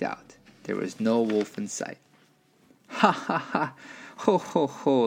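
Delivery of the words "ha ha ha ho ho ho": high mock laughter of two pigs; gleeful storybook "ha ha", then "ho ho"; pigs' laugh. A narrator's reading. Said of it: "laughed the two little pigs".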